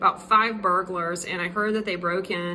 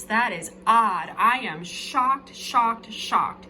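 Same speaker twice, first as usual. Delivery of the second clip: shocked Bob; 4 semitones higher than usual. Acted. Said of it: "Bob is like".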